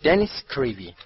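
loud roll call; calling out a name. A narrator's reading. Calling names from a list.

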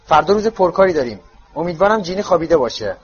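firm motherly orders; strict mum ordering bedtime; stern mother. Acted. Mrs Weasley orders boys to bed.

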